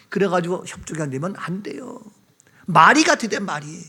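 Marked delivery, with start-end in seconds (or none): none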